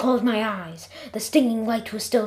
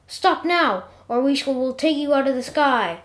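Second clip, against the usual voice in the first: a lightly voiced officer calling out a warning; higher, louder commanding call from above; helicopter warning voice; 4 semitones higher, 4 dB louder than usual. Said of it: "came a voice from one of the helicopters".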